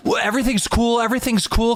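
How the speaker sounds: put-on high, placating kid voice; backing down.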